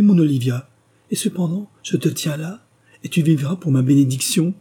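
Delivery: high, swelling cry of joy; overjoyed astonishment. A narrator's reading. Father to his lost daughter Olivia, overjoyed astonishment. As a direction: build from amazed questions to a loud, elated outpouring.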